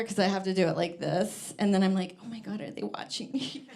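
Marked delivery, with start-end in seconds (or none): 2.2-3.7 much softer, hushed and nervous. Retold or imitated. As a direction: say it under your breath, nervous. Self quote, anxious at water break.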